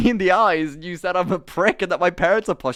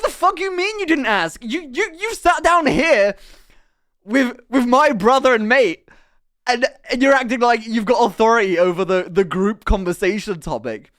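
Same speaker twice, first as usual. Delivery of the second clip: indignant retort; 3 semitones higher, 5 dB louder than usual. Retold or imitated. Retorting angrily to rude stranger.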